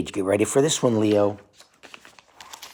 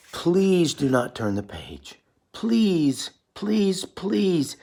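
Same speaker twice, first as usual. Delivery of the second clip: slow then much higher pleading puppet voice; plead, each please higher and falling; begging Grover; 7 semitones higher, much slower than usual. Acted. Grover begging the child not to turn, high pleading. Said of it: "He's begging us".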